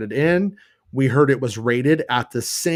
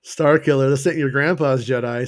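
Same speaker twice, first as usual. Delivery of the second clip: a light, slightly louder comedian impression; David Cross impression; 4 dB louder than usual. Fan quoting a Jedi line, light David Cross impression. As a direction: toss off the line like a snarky stand-up. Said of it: "said in David Cross accent".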